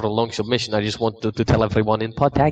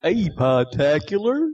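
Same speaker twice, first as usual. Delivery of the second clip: put-on hillbilly accent; 5 semitones higher, slower than usual. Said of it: "I'll do the hillbilly accent".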